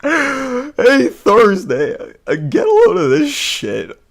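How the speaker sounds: very high, loud mock call; hollering. Austin calls Thursday over to gloat, high hammed-up holler.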